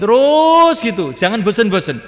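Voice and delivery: high, loud preacher's push; urgent exhortation. Real, not acted. Urging listeners, sharply raised.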